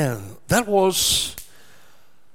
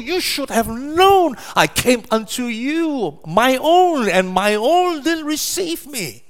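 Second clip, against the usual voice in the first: crying lament; 5 semitones higher than usual. Retold or imitated. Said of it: "He cried, like the prophet said, he cried".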